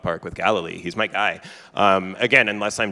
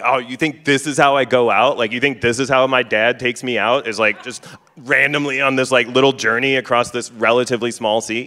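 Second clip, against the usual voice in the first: mock-indignant, higher and a bit louder; incredulous berating of doubting pals; annoyed; 3 semitones higher, 5 dB louder than usual. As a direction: act out exasperated disbelief. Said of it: "he's so annoyed to have been woken up".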